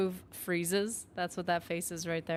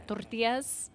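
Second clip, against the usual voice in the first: put-on tortillas suddenly in a Spanish accent; show-off Spanish accent; slower than usual. Mock show-off asking at the table, sudden Spanish accent. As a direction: switch to Spanish pronunciation for tortillas only. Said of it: "I know how to pronounce things in Spanish".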